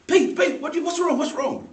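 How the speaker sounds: put-on high, loud, worried child's cry; alarmed little brother. Little brother calling his big brother, high and alarmed. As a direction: call out like a scared seven-year-old. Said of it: "so he goes".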